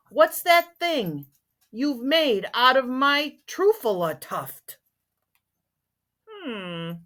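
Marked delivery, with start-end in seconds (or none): 0.1-4.8 higher, drawn-out indignant question; mild upset shout. A narrator's reading. Lorax confronting the tree chopper, mildly upset shout. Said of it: "he was very upset as he shouted and puffed".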